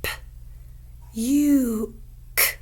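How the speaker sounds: "P, U, K" split into separate sounds; sounds tapped out. Shown as a demonstration. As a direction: tap out each sound of "puke". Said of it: "let's tap out those sounds".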